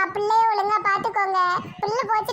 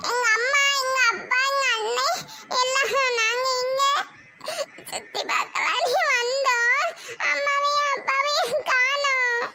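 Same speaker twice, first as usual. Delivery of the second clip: put-on a lost little girl crying, slow; crying child; slower than usual. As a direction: sob out the words like a lost child. (அம்மாவைத் தேடி அழும் சிறுமி)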